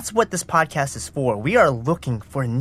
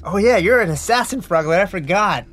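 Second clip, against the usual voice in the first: pained, higher voice, bleeding nose; with a nosebleed; 7 semitones higher, 4 dB louder than usual. Acted. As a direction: talk while nursing a bleeding nose. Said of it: "my nose is bleeding".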